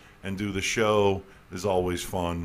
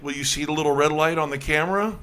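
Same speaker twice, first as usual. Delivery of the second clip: higher, louder playful greeting; playful host; 8 semitones higher, 5 dB louder than usual. Retold or imitated. Host telling passersby to greet the camera, playful and louder. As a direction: coax a passerby to wave to the camera. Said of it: "And I'm like".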